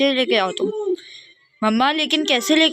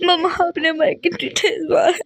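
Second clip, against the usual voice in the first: weeping and broken; tearful pleading. Acted. Child crying to mother after the burn. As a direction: cry out disappointment.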